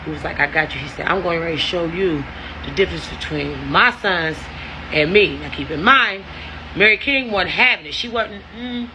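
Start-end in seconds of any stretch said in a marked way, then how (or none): 0.4-0.8 imitated man's low reassurance; coaxing in the ear. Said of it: "he's steadily in my ear like". 1.1-5.4 low-pitched imitation of a boastful man; coaxing in the ear. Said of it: "he's steadily in my ear like".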